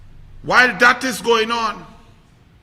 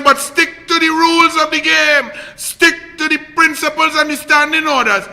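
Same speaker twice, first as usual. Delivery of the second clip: mock shout; 4 semitones higher than usual. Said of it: "when the opposition says".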